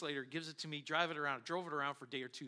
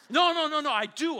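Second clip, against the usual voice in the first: laughing insistence; 10 semitones higher, 11 dB louder than usual. Retold or imitated.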